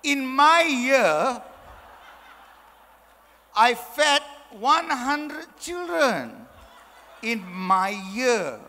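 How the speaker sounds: very slow, swelling grandiosity; ridiculously pompous boast. Acted. Past president answering hungry child with old achievements, absurdly pompous. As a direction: proclaim it in huge drawn-out words. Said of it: "that's how ridiculous it sounds".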